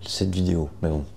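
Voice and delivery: gravelly morning voice with vocal fry; creaky just-woke-up voice. Real, not acted. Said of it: "audible avec ma voix du matin".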